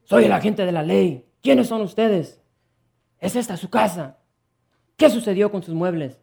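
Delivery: loud, commanding police roar; roaring policeman. Acted. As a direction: bellow it with authority. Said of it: "Rugió".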